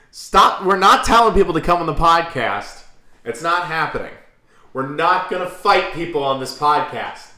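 high and loud, pleading through laughter; high laughing protest. Real, not acted. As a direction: protest while still cracking up.

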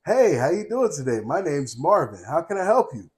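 polite customer service voice; a bright professional phone greeting; work voice. Shown as a demonstration. Showing the voice he was taught for work, polite service voice. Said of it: "when you hear me say".

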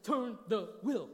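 loud, slow, drawn-out order; husband yelling at wife to turn the wheel. Retold or imitated. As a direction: bark it at her slowly, word by word. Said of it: "Why are you yelling at me?".

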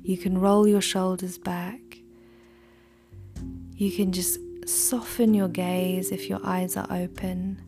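soft whisper, close to the mic; right in your ear. Acted. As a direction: breathe the words gently into the ear.

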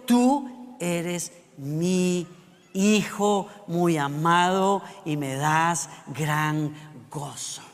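a hint of a solemn heavenly voice, very slow. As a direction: draw it out like a voice from the sky. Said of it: "una voz dijo del cielo". (voz del cielo, lenta y solemne)

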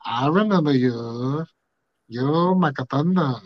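slow, lightly put-on Asian accent; imitated Asian accent. Man imitating women saying his name, thick Asian accent. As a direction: stretch it in a mock Asian accent. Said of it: "deep Asian accent where they're like".

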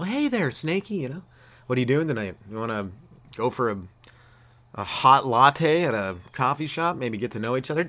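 smooth mock sweet talk to a snake; mock flirt with snake.

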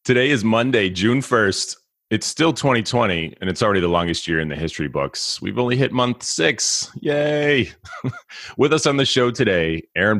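high, hyper host energy; too much caffeine. Real, not acted. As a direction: bounce it like two coffees in. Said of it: "I've had two cups of coffee already".

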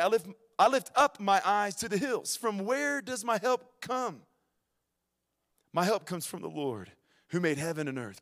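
measured, ringing psalm recitation; scripture reading. Real, not acted. Preacher reading a psalm to the congregation, proclaimed scripture reading. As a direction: proclaim it line by line, settling at the answer.

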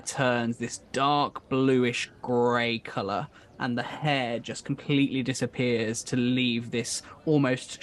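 slow, deliberate descriptive narration; game master's scene setting. Acted. Game master describes her face changing for the players, suspenseful narration. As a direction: draw out the key descriptive words.

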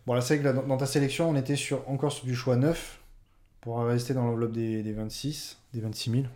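speaking away from the microphone; far from mic. Real, not acted. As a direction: voice distant and soft, off mic. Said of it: "Pardon, je m'éloigne du micro".

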